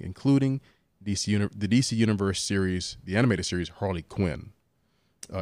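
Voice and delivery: even, informational article read; news item read aloud. Real, not acted. Podcast host reading streaming news to co-hosts, article read aloud.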